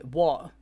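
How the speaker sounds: "what" with a plain W, as "wot". Shown as a demonstration. Showing how it sounds in my accent, "what" said as "wot". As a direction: drop the H from "what", starting straight on the W. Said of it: "always just miss the H out".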